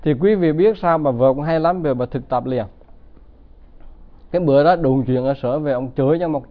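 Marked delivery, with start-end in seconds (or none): none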